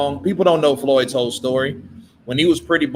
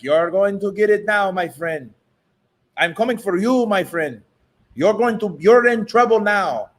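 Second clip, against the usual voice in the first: higher mock accented threat; Canelo's voice; 5 semitones higher than usual. Contrasting Canelo's voice with Oscar's. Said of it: "Canelo's more like".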